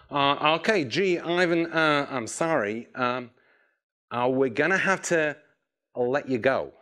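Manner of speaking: hesitant, lightly mimicked American boss; American accent. Boss laying off an employee by phone, awkward mock American accent. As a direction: stumble apologetically in a rough American accent. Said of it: "he was American".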